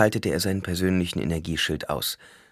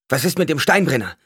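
higher, louder shouted question; called question; 8 semitones higher, 6 dB louder than usual. A narrator's reading. Newcomer shouts to Paul, loud urgent question. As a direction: call out urgently across the ruins. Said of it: "rief einer der Neuankömmlinge".

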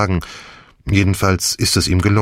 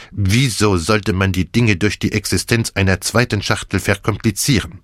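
higher, lively Belgian detective, theatrical; Poirot voice; 3 semitones higher than usual. Acted. Poirot gloats to the feverish Hastings, theatrical and higher. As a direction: play the gleeful plotting Belgian with big swings.

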